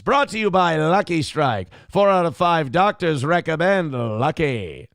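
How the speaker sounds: put-on loud, upbeat old-time ad read; chipper 1950s ad. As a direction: sell it like a fifties sponsor spot. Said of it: "ad read".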